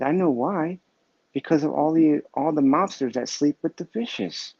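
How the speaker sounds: proud of his pun, landing it with a lift; punchline delivered brightly. Retold or imitated.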